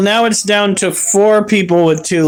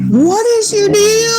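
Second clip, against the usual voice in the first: yelling; 12 semitones higher than usual. Real, not acted. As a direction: shout it at the cat. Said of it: "Stop yelling at me".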